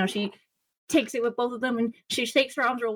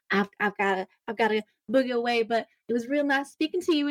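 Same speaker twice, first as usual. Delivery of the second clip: hurried Madril voice; 3 semitones higher, faster than usual. Acted. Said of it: "she's like".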